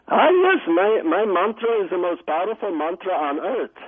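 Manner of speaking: high, bright "Ah, yes" then a proud guru; lightly voiced proud guru; guru's voice. Guru voiced in retold story.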